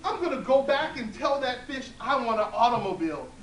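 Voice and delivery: put-on loud, high greedy old woman. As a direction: announce it with greedy glee.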